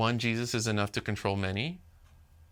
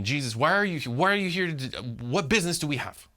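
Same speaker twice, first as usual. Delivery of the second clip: lightly voiced demon; 4 semitones higher than usual.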